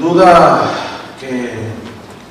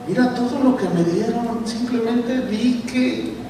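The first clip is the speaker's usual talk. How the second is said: higher, lightly voiced coaxing wife; pleading wife; 5 semitones higher than usual. Wife coaxing her upside-down husband to renounce, higher pleading voice. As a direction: coax him gently in a higher voice.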